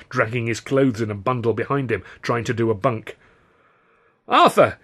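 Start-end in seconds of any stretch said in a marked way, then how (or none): 4.3-4.8 sudden high-pitched squeal of alarm. A narrator's reading. Panicked pal squealing on seeing Arthur, high squeal. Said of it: "he squealed".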